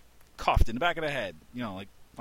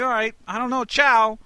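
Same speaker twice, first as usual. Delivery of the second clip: much higher, louder, puzzled farewell; baffled ciao; 11 semitones higher, 9 dB louder than usual. Retold or imitated. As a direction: give up and shout ciao. Confused third goodbye.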